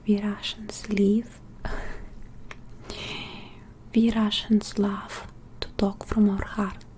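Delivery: put-on whispered Russian-accented English; halting ASMR whisper with a Russian accent. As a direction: talk from the heart in a careful Russian accent, whispering. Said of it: "focus so much on my Russian accent".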